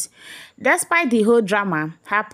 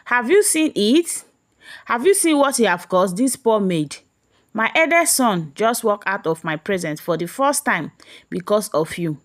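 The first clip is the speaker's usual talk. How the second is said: thundered. Acted. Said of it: "About me thundered".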